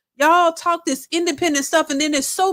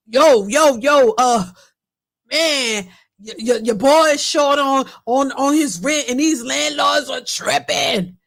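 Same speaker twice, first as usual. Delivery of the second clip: lightly mimicked guy, opening loud; attempted man's voice; 3 dB louder than usual. Man telling followers he's short on rent, lightly imitated male voice. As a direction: put on a man's voice to plead his case. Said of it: "trying my best to talk like a man".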